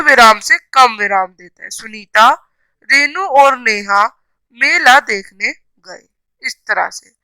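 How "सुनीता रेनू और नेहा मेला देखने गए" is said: slow reading with short breaks inside "Sunita Renu और नेहा मेला देखने गए"; comma pauses. Shown as a demonstration. Teacher showing children the comma in "Sunita Renu और Neha", slow with short pauses. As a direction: read "Sunita Renu और Neha" slowly, pausing briefly between word groups. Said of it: "थोड़ी देर के लिए वाक्य के बीच में रुकते हैं".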